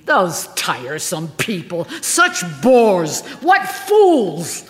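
rising to a high, loud scoff; Margola's dismissive quip. A narrator's reading. Actress brushing off fans, mock-weary high scoff. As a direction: toss it off like a bored star. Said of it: "apologize ... by saying".

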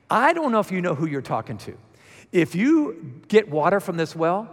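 voicing Jesus. Preacher voices Jesus to woman.

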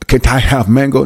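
lightly put-on African accent; mock African accent. American mocking expats buying mango, mock African accent. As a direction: imitate an African accent for a line. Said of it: "you don't talk like that".

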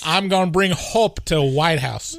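badly faked Chicago accent; Obama with Chicago accent. Host imagines a president's campaign line, Chicago accent. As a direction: ham up a clumsy Chicago accent. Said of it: "I'm not very good at Chicago accent".

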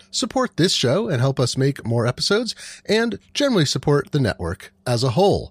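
host's prepared sign-off delivery; measured announcer-style podcast credits; podcast outro read. Acted. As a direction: read the closing credits to listeners.

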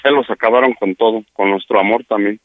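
low-pitched, weary blame; resigned reproach. Real, not acted. Man blames partner's jealousy for ending their love, resigned reproach.

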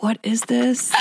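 high laughing disbelief; words breaking into laughter. Real, not acted. Laughing at Hedwig comments.

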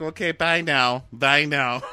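high, loud brisk goodbye; mock cheery send-off. Voicing her hurrying him out.

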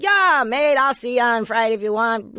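bad Australian accent. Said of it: "accent that is".

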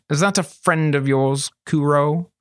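mock friendliness hiding menace; pleasant. A narrator's reading. Master asking the boy about his friend, falsely pleasant. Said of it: "he said pleasantly".

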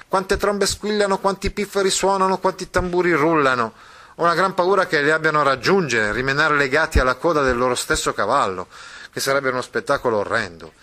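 put-on the boy announcing. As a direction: proclaim the chase to the audience. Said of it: "il ragazzo continuò". (il ragazzo che annuncia con voce alta e squillante)

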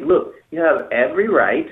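calm, even tone. Shown as a demonstration. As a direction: say it calmly, free of any edge. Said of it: "You have to say it very calmly".

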